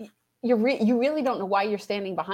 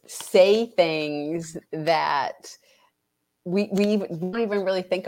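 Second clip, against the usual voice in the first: breathless, hushed aside; whisper. Real, not acted.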